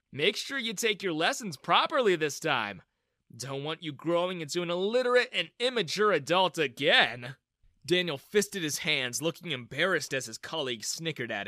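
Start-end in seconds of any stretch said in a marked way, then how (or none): 0.1-7.3 smug taunt. Acted. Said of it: "I smirked".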